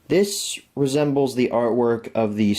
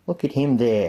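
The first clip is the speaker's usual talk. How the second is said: slight Australian lilt, barely there; a hint of an Aussie accent on a throwaway line. Real, not acted. Fan pointing out Woody Harrelson, faint Australian accent. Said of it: "I started talking in an Australian accent".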